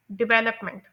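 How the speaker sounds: डेवलपमेंट with वेल longer and stressed; stress on VEL. Shown as a demonstration. Teacher models stress on वेल in डेवलपमेंट. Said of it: "इस वेल को बोलते हुए मेरी duration भी ज़्यादा थी".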